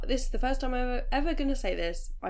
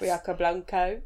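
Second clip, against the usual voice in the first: sassy drag queen; 2 semitones lower, 5 dB louder, slower than usual. Pretend. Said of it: "it does sound like a drag queen".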